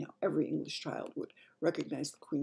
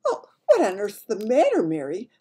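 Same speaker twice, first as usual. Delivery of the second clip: loud, raised royal voice; perplexed Queen; 5 semitones higher, 10 dB louder than usual. Acted. Queen to her silent maid, perplexed. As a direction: demand an explanation in concern.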